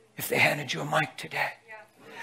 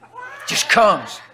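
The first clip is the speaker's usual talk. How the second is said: laughing shout; 5 semitones higher, 5 dB louder, much slower than usual. Real, not acted.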